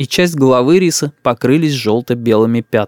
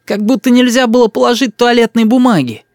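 put-on stubborn boy; 10 semitones higher than usual. A narrator's reading. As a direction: dig in like a spoiled kid. Boy scoffs. (упрямый мальчишка)

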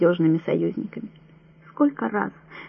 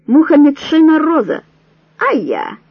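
cheerful call; 7 semitones higher, 6 dB louder than usual. A narrator's reading. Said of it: "весело посвёркивая".

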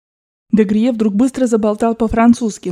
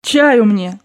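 mildly raised, curt order; shouted demand; 3 dB louder than usual. Acted. Grandmother demanding tea on arrival, shouted order. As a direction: demand it with some force. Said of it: "закричала бабушка".

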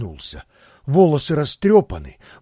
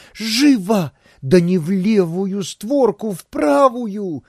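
urgent orders, a touch louder; brisk command; 5 semitones higher, 3 dB louder, slower than usual. A narrator's reading. Isabella pushes Pavel into the wardrobe, commanding briskly. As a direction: hurry him along firmly. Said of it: "решительно объявила".

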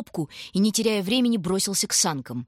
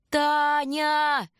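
higher, drawn-out shout of the name; urgent long call; 9 semitones higher than usual. A narrator's reading. Shurka calling his frozen sister again, urgent long call. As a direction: call her desperately across the snow.

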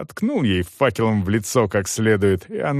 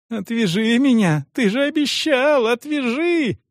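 much higher, frantic begging; screaming plea; 13 semitones higher than usual. A narrator's reading. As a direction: scream to be untied. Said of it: "орала Франческа".

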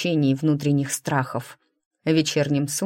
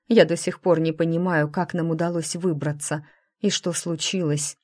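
ordinary delivery

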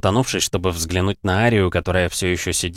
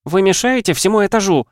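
high, loud scolding; angry scolding; 12 semitones higher, 5 dB louder than usual. Acted. Ashton scolding the noisy cadets, loud and high. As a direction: tear into them. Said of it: "зарычала на них".

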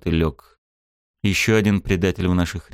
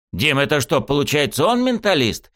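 high, struck-by-an-idea female voice; the thought suddenly dawns on her; Gorina realising; 7 semitones higher than usual. Acted. Gorina realises her partner is a mentalist, high and struck. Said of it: "осенила Горина".

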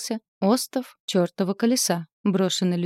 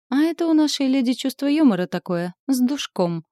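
a raised, amused explanation; calm dry mockery; 7 semitones higher, 5 dB louder than usual. A narrator's reading. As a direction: explain her joke with a smirk. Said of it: "спокойно ответил ему Асмодей".

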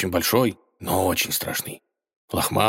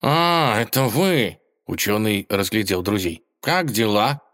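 cheerful cat. Acted. Cat recognises friends.

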